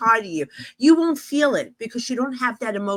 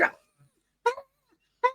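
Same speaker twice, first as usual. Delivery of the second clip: short, choked mock cries; strangled little "ah" noises; imitated screech; 3 dB quieter, much faster than usual. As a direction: imitate a voiceless screamer in bursts. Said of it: "She's like".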